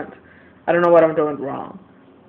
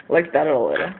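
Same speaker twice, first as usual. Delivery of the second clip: soft laugh; 3 semitones lower than usual. Shown as a demonstration. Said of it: "but not that loud".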